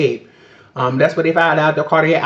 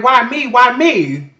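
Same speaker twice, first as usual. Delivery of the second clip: a higher, pleading, half-tearful "why me"; retelling a plea to the doctors, a touch of tears; distraught plea; 5 semitones higher, slower than usual. Retold or imitated. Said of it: "I'm really crying".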